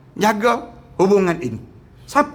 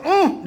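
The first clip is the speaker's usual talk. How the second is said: mock exasperated uh; 8 semitones higher than usual. Shown as a demonstration. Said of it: "jangan sebut".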